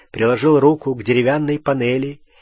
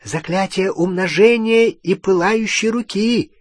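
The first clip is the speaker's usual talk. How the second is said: higher alarmed goblin exclamation; goblin exclaiming; 6 semitones higher than usual. A narrator's reading. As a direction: blurt it out in alarm. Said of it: "воскликнул Крюкохват". (возбуждённое восклицание гоблина)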